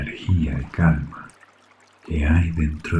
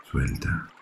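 whisper; 3 semitones lower, 6 dB quieter than usual. Acted. Whispered end of instruction.

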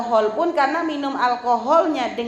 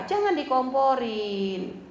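slow warning; 3 dB quieter, much slower than usual. Shown as a demonstration. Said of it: "Kalau lagi suami marah".

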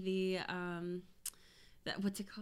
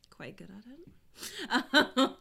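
slow teasing laugh; 4 semitones higher, 5 dB louder, much slower than usual. Real, not acted. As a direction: drag it out with a laugh. Boasting about sex, laughing.

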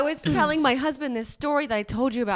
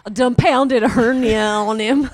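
mock Arkansas accent; 8 dB louder than usual. Friend joking about a hernia, in a mock Arkansas accent. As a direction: play a hick from Arkansas bragging. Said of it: "they're not from Arkansas".

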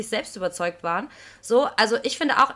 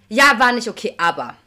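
spöttisch nachgeäfft; 8 dB louder than usual. Retold or imitated. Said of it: "sich da hinstellen und sagen".

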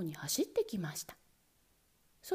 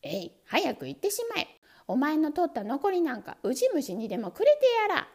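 louder furious yell; angry shout; 4 semitones higher, 5 dB louder than usual. Acted. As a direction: shout him out the door. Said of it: "いよいよ怒って叫びました".

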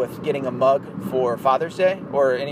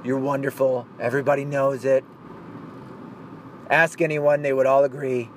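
Donald Trump voice; 3 semitones lower, slower than usual. Retold or imitated. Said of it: "I can't do his voice very well".

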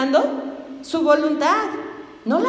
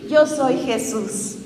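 slow solemn Jesus voice; much slower than usual. Retold or imitated. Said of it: "qué le dice".

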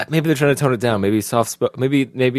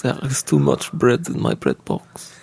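put-on soft German accent; slower than usual. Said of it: "I'll give you a sentence".

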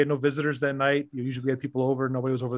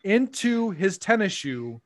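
slow, higher, mock precise description; mock formal; 3 semitones higher than usual. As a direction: savour each word like a report.

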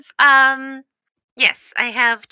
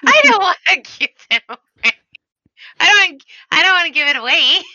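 excited; 8 semitones higher, 6 dB louder than usual. Acted. Excited scheming in high voice.

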